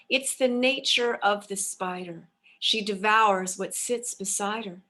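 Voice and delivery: measured, sing-song verse reading; rhyming poem recitation. Acted. Spirits addressing their daughter, recited as rhyming verse. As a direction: intone the rhyme like an oracle's message. Fairy queen's answer in rhyme.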